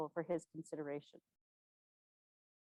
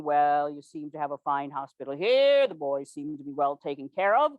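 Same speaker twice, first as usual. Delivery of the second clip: complacent; 3 semitones lower, 4 dB louder than usual. Retold or imitated. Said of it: "complacently saying".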